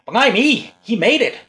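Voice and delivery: hammed-up Cockney-ish English accent, high and loud; mock English accent. Mocking the actor's fake English accent in a film. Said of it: "trying to be really, really English".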